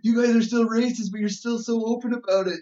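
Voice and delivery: high-pitched, astonished retelling; appalled disbelief. Retold or imitated. Visitor shocked at open racism, astonished. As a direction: marvel out loud, pitched well up.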